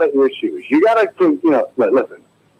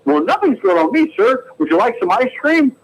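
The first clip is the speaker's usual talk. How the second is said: soda jerk voice; 9 semitones higher than usual. Acted. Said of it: "walking into a soda shop".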